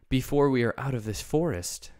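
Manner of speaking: put-on a small girl asking, a little worried; Dorothy asking the Tin Woodman the way; Dorothy's voice.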